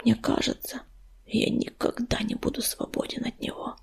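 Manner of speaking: despairing whisper, very soft; faint, breath-only confession; barely audible whisper. A narrator's reading. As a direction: whisper it as if hardly able to speak. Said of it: "еле слышно прошептал он".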